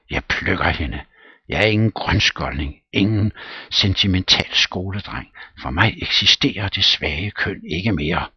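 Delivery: loud, determined bragging; Smirnov boasting. Acted. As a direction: puff himself up.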